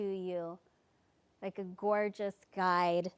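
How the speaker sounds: measured guide with long pauses between phrases; guided meditation. Acted. Leads a guided visualisation.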